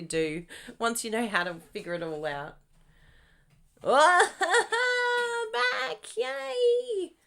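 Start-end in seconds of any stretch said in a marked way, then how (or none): 3.8-7.1 high, loud laughing cheer; excited relief. Real, not acted. Host delighted the livestream reconnected, cheering. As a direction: celebrate the stream being back. Stream back after freezing.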